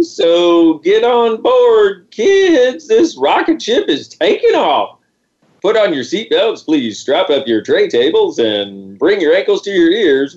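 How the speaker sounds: playful high cabin announcement; hammed-up flight attendant, slow and high. Rocket ship boarding announcement.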